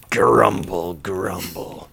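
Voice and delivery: mock low grumbling; Stanley. Stanley grumbling at the breakfast table, mock grumpy voice. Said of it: "Stanley's like".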